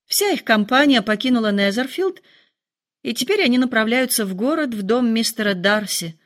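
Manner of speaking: ordinary delivery, nothing marked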